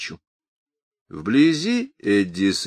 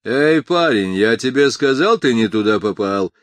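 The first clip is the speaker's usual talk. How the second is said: angry shout; 4 semitones higher, 7 dB louder than usual. Acted. Thug shouting threat.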